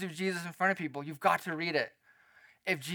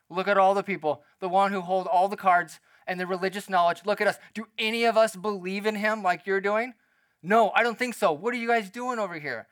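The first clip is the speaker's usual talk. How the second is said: peer-pressuring Pharisees; 2 semitones higher, 3 dB louder than usual. Acted. Pharisees leaning on the temple guards, pressuring and incredulous. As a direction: press them with indignant rhetorical questions. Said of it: "the tactic of peer pressure".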